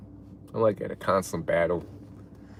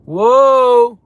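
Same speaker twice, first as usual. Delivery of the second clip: high, loud, drawn-out shock; real astonishment; 9 semitones higher, 14 dB louder than usual. Real, not acted. Streamer stunned by a viewer's donation, astonished shout. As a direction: cry out long and loud, stunned.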